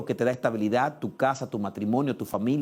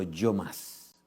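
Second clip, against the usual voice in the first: a low, soft, weighty "yo más"; low emphatic; 6 semitones lower, 7 dB quieter than usual. Acted. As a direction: drop the voice to land it. Repeating the climax.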